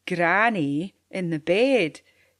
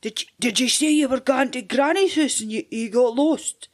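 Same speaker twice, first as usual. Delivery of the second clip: friendly wolf; 5 semitones higher, 4 dB louder than usual. Acted. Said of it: "gaed his best friendly patter".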